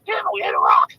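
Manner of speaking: high, loud parrot cry; squawking parrot. Acted. Parrot thrown against the wall in a joke, high loud squawk. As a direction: screech the curse like a parrot. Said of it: "and the parrot goes".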